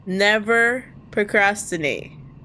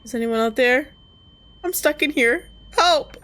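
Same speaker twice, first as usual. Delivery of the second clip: calling out; 4 semitones higher than usual. Acted. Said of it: "I called out".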